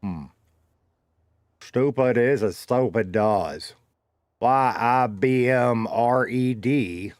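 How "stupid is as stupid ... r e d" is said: character voice. Pretend. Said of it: "let me talk like one of Carmine's characters".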